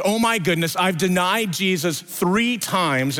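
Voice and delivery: a touch of acted dismay; dismayed realization. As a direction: let the horror dawn slowly. Peter realizes his betrayal.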